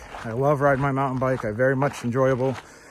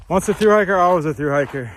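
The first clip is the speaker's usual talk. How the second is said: higher and louder, proudly declared; excited; 4 semitones higher, 5 dB louder than usual. Real, not acted. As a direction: proclaim it like a motto. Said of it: "repeats saying emphatically".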